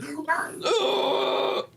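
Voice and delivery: high, drawn-out playful gasp; mock gasp-shriek. Co-host reacting to being corrected, mock shriek. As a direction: gasp high and let it fall.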